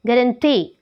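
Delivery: "गारंटी" with the force on the final "टी"; third-syllable stress. Shown as a demonstration. Teacher giving learners an example, "गारंटी" stressed on "टी". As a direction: lean on "टी" at the end of "गारंटी". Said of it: "इसमें third syllable पे है".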